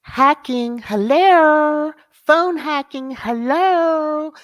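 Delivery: high, loud mocking "hello?"; sarcastic hello. Real, not acted. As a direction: call it out like it's obvious. Mocking the obvious phone hacking.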